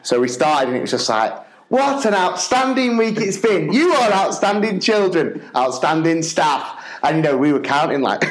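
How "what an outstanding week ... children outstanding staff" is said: high, drawn-out praise for the whole school; assembly host. Retold or imitated. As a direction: address a hall of children, slow and high.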